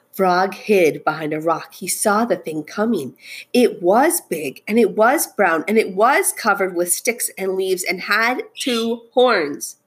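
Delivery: expressive picture-book narration; suspenseful storytelling. A narrator's reading. Teacher reading about the approaching thing, suspenseful storytelling. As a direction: build suspense, leaning on each "was".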